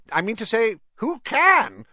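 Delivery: high, loud nervous official. A narrator's reading. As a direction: sweat through the words. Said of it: "upper lip was sweating".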